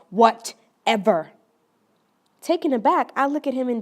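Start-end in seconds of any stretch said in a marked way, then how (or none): 0.1-1.3 slow, drawn-out hostile brush-off; more aggressive reply. Retold or imitated. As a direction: lean on it with irritation. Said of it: "he more aggressively replies".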